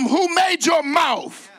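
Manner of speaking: high, slow shout on made; booming God shout. Acted. The Lord shouting at stammering Moses. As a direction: thunder it out as the Lord. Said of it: "shout it like I shouted it".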